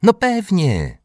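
high, loud, eager agreement; exclaiming. A narrator's reading. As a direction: cry out yes with delight. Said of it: "wykrzyknęły razem bliźniaczki".

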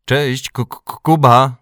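loud, high mock-stammered greeting; stuttered shout from afar; calling out with a stutter. A narrator's reading. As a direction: holler hello, tripping on the name. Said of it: "wychylił się ze statku i zawołał".

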